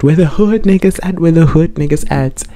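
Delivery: high, loud chant shouted out; yelled catchphrase. Retold or imitated. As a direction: repeat it like friends hollering together. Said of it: "we kept yelling it".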